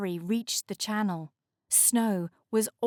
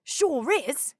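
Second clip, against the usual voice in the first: icebreaker character voice; 5 semitones higher, 4 dB louder than usual. A narrator's reading. Castor voice.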